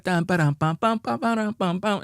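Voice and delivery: high sung imitation of a trumpet tune; mock sung trumpet melody; mimicking Haitian music. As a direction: hum the horn riff up high. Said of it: "And they had".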